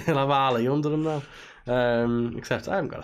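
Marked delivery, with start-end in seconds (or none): 0.1-1.2 playful Scouse on "Ali"; put-on Scouse accent. Shown as a demonstration. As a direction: repeat it with a hammed-up Scouse accent. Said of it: "with a Scouse accent".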